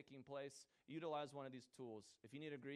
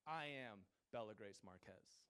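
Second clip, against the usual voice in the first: sweet little voice; 3 semitones lower, slower than usual. Retold or imitated. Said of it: "she says in her sweet little voice".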